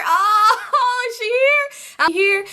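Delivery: high-pitched imitation of an eager guy; high, eager retold exclamation; excited outburst. Voicing son's excited question.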